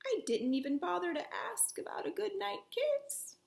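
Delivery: soft, hushed aside; whispered aside. Acted. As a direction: say it sadly under the breath. Sad resigned aside.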